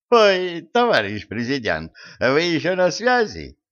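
high startled gasp; surprised. Acted. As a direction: caught out, startled. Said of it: "удивился профессор".

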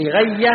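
لغية as li-ghay-ya, kasra on the lam; first variant of لغية. Shown as a demonstration. Teacher lists three variants, لغية said li-ghay-ya. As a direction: say لغية with an i after the l and doubled y. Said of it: "ثلاث لغات الآن".

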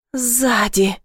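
ordinary delivery, nothing marked

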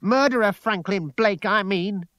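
high, loud accusation hitting "Murderer"; angry shout. A narrator's reading. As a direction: shout it back, punching "Murderer". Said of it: "she shouted".

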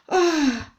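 high short gasped ah; a startled little cry; startled exclamation. A narrator's reading. Wife startled by the name, a high gasp.

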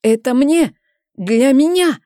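high, loud demanding shout; loud insistent claim. A narrator's reading. Haki blocks the entrance and shouts his claim, high and loud. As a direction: claim it for himself, stubborn.

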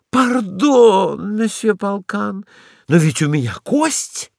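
a flustered lady dog defending her bone; catching herself. Acted. Ragulya hastily apologises to Polkan, flustered. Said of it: "спохватилась Рагуля".

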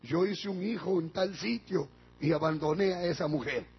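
tearful confession. Retold or imitated. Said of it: "el papá se puso a llorar".

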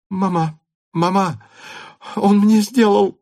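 bursting with news; excited girl. A narrator's reading. Natasha runs in to her mother, excited. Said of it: "взволнованная".

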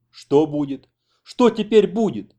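loud wail climbing high and slowing; moaning dismay. A narrator's reading. Taras dreads what comes of the shot American, moaning lament. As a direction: lament helplessly, building. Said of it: "стонал Тарас Апанасович".

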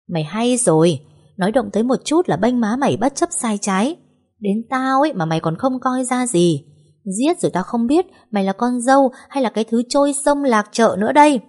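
a mother-in-law losing her temper; mother-in-law insulting her son's wife, building to a shout; angry mother-in-law. Acted.

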